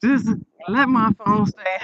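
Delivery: loud plea up top, slow and drawn out; retold desperate prayer. Retelling a prayer over a dying phone, mildly pleading. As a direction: mildly imitate your own pleading prayer. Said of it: "I was praying so hard".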